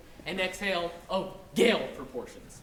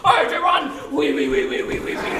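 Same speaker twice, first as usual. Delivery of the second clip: higher, louder squeal; squealing pig; 7 semitones higher, 8 dB louder than usual. Acted. Pig one squeals at pig two to run. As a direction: urge flight in a squealing hurry. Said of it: "squealed one".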